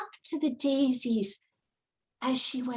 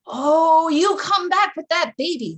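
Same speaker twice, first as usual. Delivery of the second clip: loud, demanding call upward; shout at the osprey; 4 semitones higher, 8 dB louder than usual. Acted. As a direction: order the bird to bring the baby back. Long John shouts at osprey.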